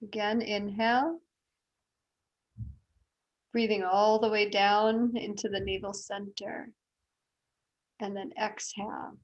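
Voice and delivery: softly guided breathing, unhurried; breathing meditation guide. Real, not acted. Yoga teacher guiding the class's breathing, soft and calm. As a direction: settle them gently into the breath.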